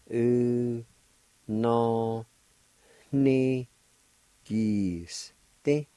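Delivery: "U, no, ni, Giste" with a nasal "ni", syllables apart. Shown as a demonstration. Teacher shows the nasal sound of the N with the I. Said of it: "it has a nasal sound to it, like this".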